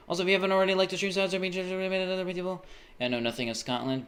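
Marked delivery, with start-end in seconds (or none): 0.1-2.7 mock announcer plug. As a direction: ham up the subscribe plea. Stream plug in joke voice.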